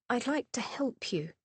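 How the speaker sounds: gentle. A narrator's reading. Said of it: "said gently".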